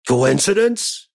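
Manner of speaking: a hint of a manic conspiracy guy; Charlie Day. Podcast host jokingly doing Charlie Day on coincidence. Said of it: "I don't want to be Charlie Day about it".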